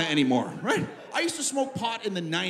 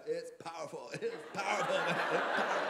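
soft, odd stoner-buddy voice; fan's warning; 3 semitones lower, 8 dB quieter than usual. Retold or imitated. Fan warning comic about the gummy bear, hushed mock warning. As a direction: quietly voice a fan's ominous warning.

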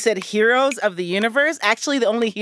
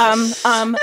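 whispering; 3 dB louder than usual. Real, not acted. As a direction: whisper hesitantly. Whispering while judge decides.

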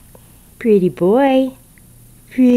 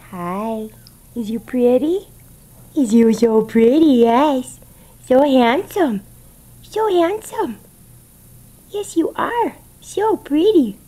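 goofy pet voice; slower than usual. Real, not acted. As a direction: coo like talking to a puppy. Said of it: "I got a goofy voice, huh?".

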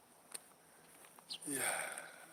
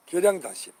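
계량단심 announced loudly, higher; proud loud announcement of 계량단심; 4 semitones higher, 11 dB louder than usual. Real, not acted. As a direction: call the name out high and loud. Announces name, then repeats.

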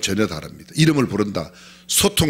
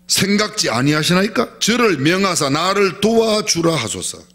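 complaining; 5 semitones higher than usual. Retold or imitated. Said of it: "불평스러운 마음을 서슴지 않고 드러냅니다".

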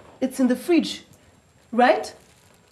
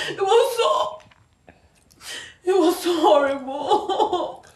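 laughing through tears; 5 semitones higher, 4 dB louder, slower than usual. Real, not acted. Recounting being ridiculed.

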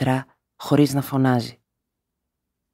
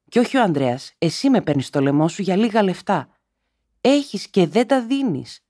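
high, raised, rising to cries of despair; desperate anger; 6 semitones higher than usual. A narrator's reading. Daughter accusing her mother of hoarding money, high and desperate. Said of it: "εθύμωνε και που απελπισμένη επαναστατούσε".

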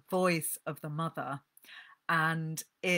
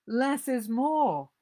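higher and louder, slow, withering put-down; withering punchline; 8 semitones higher, 7 dB louder, slower than usual. Acted. Mother scoffing at men who sob, slowly and scornfully. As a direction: land it like a scornful verdict.

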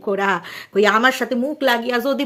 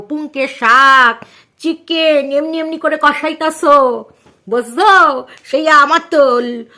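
playful dialect teasing. Pretend. Playfully addressing grandma about her cooking and drooling, teasing dialect. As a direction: tease her with stretched line endings, projected.

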